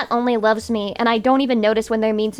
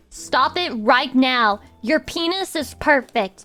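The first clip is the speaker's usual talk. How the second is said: reassuring; slower than usual. Real, not acted. Reassuring chat slowly.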